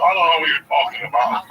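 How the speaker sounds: lightly hammed aristocrat denial; snooty rich man. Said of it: "He's like Thurston Howell the third".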